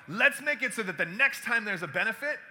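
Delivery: retold fired-up enthusiasm; caught up in the moment. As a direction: pitch the idea with excitement. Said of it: "got caught up in the moment".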